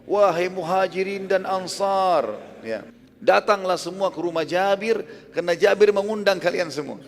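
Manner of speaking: high, loud call to a crowd; loud, drawn-out proclamation; shouted summons. Acted. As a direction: call everyone over as if from atop a rock. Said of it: "Nabi berdiri di atas batu yang tinggi teriak".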